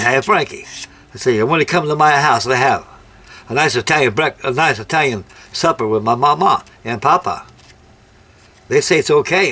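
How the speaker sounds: lightly imitated Italian-American friend's accent; hint of a broken-English Italian accent; mock Italian pidgin English. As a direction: add Italian vowel endings, nice-a Italian supper. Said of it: "they all speak pidgin English".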